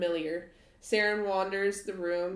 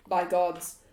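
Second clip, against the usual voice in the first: firm, louder in-character oath; emphatic exclamation; 5 dB louder than usual. Acted. Game master voices Strahd's outburst, emphatic exclamation. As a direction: exclaim it firmly.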